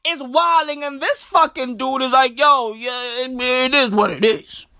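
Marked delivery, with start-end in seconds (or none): 2.4-4.7 lightly voiced, mumbling minister shrugging it off; mock a politician's resigned delivery; imitating the minister. Comedian mimicking the minister brushing off power cuts, lightly put-on voice. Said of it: "He talks like that".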